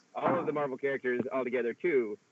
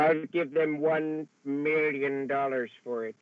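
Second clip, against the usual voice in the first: slow, villainous Doctor Evil drawl; slow, smug evil mastermind voice; much slower than usual. Retold or imitated. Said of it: "in your Doctor Evil voice".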